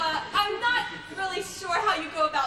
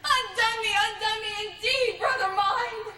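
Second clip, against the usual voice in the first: tragic lament; 3 semitones higher than usual. Acted. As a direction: lament the dead brother, building in pitch. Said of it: "return to the classics".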